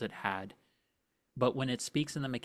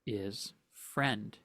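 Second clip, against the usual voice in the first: slow creature plea; much slower than usual. Acted. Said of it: "as it says that".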